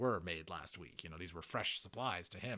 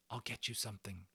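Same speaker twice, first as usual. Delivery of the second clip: soft hush; 6 dB quieter than usual. Acted. Omri offering Bright Stars food at night, softly. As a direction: hush so parents don't wake. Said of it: "he whispered".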